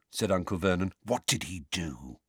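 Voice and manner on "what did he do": quiet coaxing father. Acted. Father coaxes son gently.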